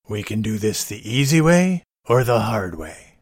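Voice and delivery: low movie tough-guy threat; mock tough guy. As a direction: lay out the threat, low and measured.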